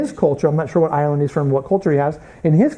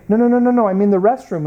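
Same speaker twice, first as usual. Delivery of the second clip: higher, rapid-fire mock protest; flustered correction; 4 semitones higher, faster than usual. American shown the bathtub by British host, flustered correction. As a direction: hurriedly correct a misunderstanding.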